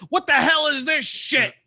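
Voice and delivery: high-pitched outraged parent yell; hammed-up indignant outburst; mock yell. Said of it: "You yell".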